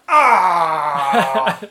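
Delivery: loud pained groan; crowd groan. Retold or imitated. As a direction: groan like a whole table. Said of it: "the collective groan from the table".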